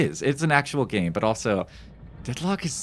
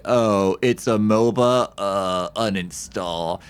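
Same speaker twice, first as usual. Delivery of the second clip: dismissive; 5 dB louder, much slower than usual. Retold or imitated. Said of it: "I was like".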